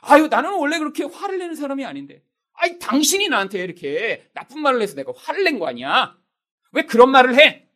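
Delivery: acted aggrieved self-justification; blaming excuse. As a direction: shift the blame onto the other person. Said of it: "다른 사람에 대해서 변명거리를 찾습니다".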